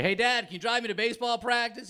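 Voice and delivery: put-on high, small child voice; put-on high-pitched little-kid request; kid asking dad. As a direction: imitate a boy asking his dad a favor. Comic plays himself as a child.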